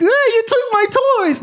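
very high mock child whine; hammed-up toddler complaint; little kid tantrum. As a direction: squeal it like a whiny little kid. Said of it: "it's not like a little kid".

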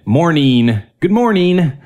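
"morning" ending in a long high "een"; "-ing" as "een". Retold or imitated. Mocking Michiganders who say "morning" as "morneen". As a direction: turn the end of "morning" into "neen". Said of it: "They will say "een".

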